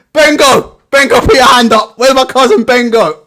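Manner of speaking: calling out to a crowd, half-joking; mock calling out. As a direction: shout for cousin Bengo into the mic. Mimicking champion calling for Bengo.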